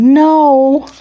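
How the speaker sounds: put-on high, loud, drawn-out child's scream; screamed refusal. Katie refusing Daddy's call to get dressed, screaming. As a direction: scream it out in high-pitched protest. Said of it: "I cried and screamed".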